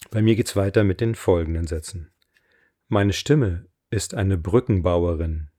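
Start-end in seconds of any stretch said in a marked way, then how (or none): 2.9-5.5 slow, deliberate affirmation voice; affirmation reading. Acted. Coach reads her voice affirmations for listeners to repeat, slow affirmation reading. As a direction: read each line with weight and pauses.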